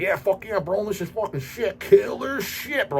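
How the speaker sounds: mocking, half-sung bro hype, high and slow; mock metal bro. Mocking fans who hype every clone band, in a half-sung bro voice. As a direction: ham up a dumb fan gushing over a clone band. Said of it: "And everybody's like".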